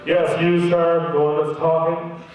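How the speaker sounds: curt official at the interview; no-nonsense officer voice; stern interrogator. Retold or imitated. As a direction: summon them like an interrogator. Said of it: "the tone became immediately different".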